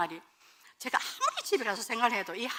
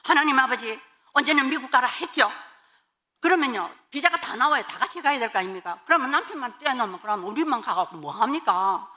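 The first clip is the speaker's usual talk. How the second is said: raised, insistent complaint to God; protesting prayer; 3 semitones higher, 3 dB louder than usual. Retold or imitated. Wife challenging God over the missing visa, protesting. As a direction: argue the case loudly in prayer. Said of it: "항변 기도를 했습니다".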